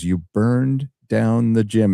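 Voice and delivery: slow, flat realization of the gym; slow deadpan principal reading the file. Retold or imitated. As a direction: drag it out as he reads the record. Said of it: "he looks at the record and goes".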